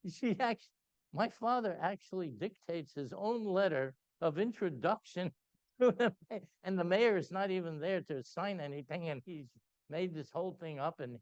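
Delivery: high, loud, laughing through the words; can barely hold back the laughter. Real, not acted.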